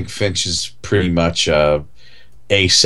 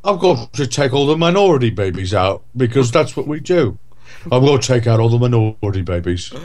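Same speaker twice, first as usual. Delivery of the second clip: higher, hammed-up Cockney doctor; mock Michael Caine doctor; 5 semitones higher than usual. Host parodies the film's doctor, higher pitched. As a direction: crude satirical villain voice. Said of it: "I'm Michael Caine, the abortionist".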